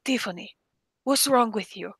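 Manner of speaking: lightly voiced Jordanian accent; a touch of imitated Arabic accent; strong Arabic accent. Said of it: "somebody with a strong accent".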